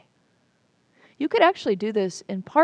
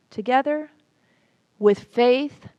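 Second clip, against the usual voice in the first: louder, slow, declared affirmation; spoken affirmation; 4 semitones higher, 7 dB louder than usual. Real, not acted. Teacher leading listeners in a closing affirmation, slow and strong. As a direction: proclaim it for everyone to repeat. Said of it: "close out with me with this affirmation".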